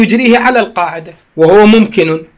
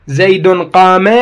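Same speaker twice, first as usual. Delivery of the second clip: "زيد قام" said slowly, each word drawn out; slow teaching example; slow example read; 4 dB louder, much slower than usual. Shown as a demonstration. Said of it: "من أقول".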